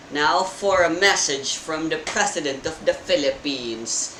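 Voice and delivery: flat robotic TV announcer voice. Acted. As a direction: speak like a monotone robot. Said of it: "the T V says in a robotic voice".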